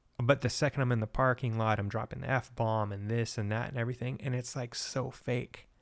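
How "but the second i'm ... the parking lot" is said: ordinary delivery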